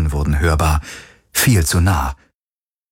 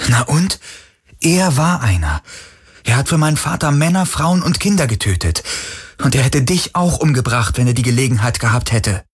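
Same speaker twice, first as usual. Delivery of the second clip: higher, fast and insistent; heated defence; 5 semitones higher than usual. Acted. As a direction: argue him out of his guilt. Kirai verteidigt den Schuss. (erregt, höher und schnell)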